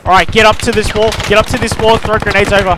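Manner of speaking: high, loud order to advance; commanding shout. Real, not acted. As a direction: drive the squad up to the wall. Leading the squad's assault.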